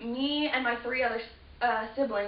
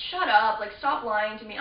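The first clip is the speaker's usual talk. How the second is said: 1 irritated shout; 5 dB louder than usual. Retold or imitated. Siblings disbelieving the story.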